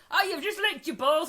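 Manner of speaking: retelling reacting to the dog; shocked laughing exclaim. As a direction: squeal it with disgust and a laugh. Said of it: "at first you went".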